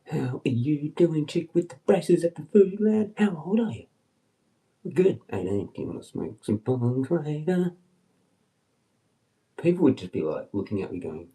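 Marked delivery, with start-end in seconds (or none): 0.0-7.8 brash flirting at the counter; cocky chat-up.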